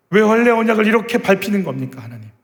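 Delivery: high, pressing question to God; frustrated plea to God. Acted. Young David before Goliath asking God why, frustrated pleading. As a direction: demand an answer from heaven. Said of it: "그 답답함".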